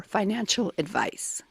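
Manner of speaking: whisper. Acted. Whispering the fact's last words.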